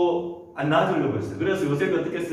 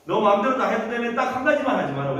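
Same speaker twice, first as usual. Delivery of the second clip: higher-pitched, insistent master; master's orders; 5 semitones higher than usual. Acted. Master warning his household manager Joseph, insistent. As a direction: lay down the one rule to a servant. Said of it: "주인이".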